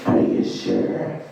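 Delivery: slow, very low whispery rasp; inner monologue. Acted. Inner monologue doubting he got over it, slow raspy whisper. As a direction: draw out the doubt in a deep rasp. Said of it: "conversation with me and my inner monologue".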